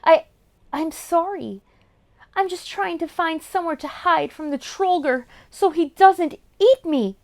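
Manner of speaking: stammering shaky fear; trembling voice. Acted. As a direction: tremble through each word. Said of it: "with a trembling voice".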